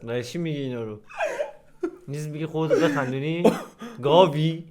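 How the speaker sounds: talking through laughter; laughing. Real, not acted. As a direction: try to hold back a laugh. Laughing at the video. (با خنده)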